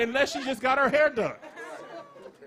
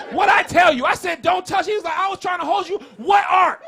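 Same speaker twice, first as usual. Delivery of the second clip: louder hammed-up scolding God; mock angry God; 4 semitones higher, 6 dB louder than usual. God scolding the man who touched the ark, mock anger. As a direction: scold like a fed-up parent. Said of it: "voicing God angry".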